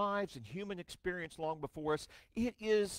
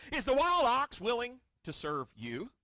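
voice of God; 4 semitones higher than usual. Acted. Preacher voicing God to Job.

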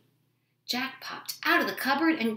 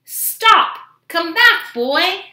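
high, very loud storybook shout; giant shouting after someone; 8 semitones higher, 14 dB louder, much slower than usual. A narrator's reading. Giant calls after Jack fleeing with harp, shouting. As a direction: yell it at someone running away.

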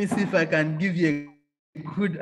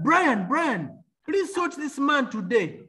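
high mock call across an office; imitated shout; 8 semitones higher, slower than usual. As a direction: call out to the accountant like a boss. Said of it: "He shouted at the accountant".

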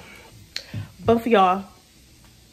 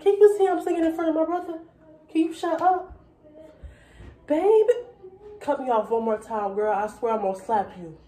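fake argument; 3 semitones higher than usual. Fake fight with imaginary friend.

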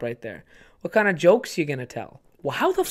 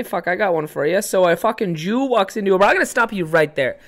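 loud jeering Canadian hoser, higher and louder; mocking small-town guy; 4 semitones higher, 5 dB louder than usual. Local guy mocks the kid who wants comedy, jeering loudly. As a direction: heckle him like a rowdy local.

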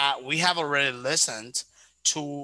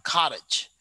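American "cottage" with a flapped T; American pronunciation. Shown as a demonstration. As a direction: say "cottage" American-style, T close to D. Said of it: "we normally pronounce like".

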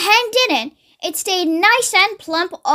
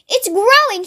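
high-pitched yelp of excitement; excited yell; 6 semitones higher than usual. A narrator's reading. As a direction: call out the amazing news, pitched up. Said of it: "he yelled".

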